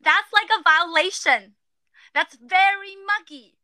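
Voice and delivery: putting on a British accent for the slang word. Shown as a demonstration. Host asked to say the slang in a British accent. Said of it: "you gotta do the accent".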